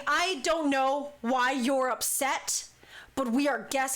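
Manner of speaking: slow, firm protest. Retold or imitated. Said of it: "I'm now raising my voice".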